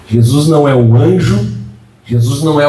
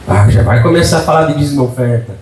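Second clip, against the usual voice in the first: mock grumbling congregant; faster than usual. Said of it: "Calma, seu Nono".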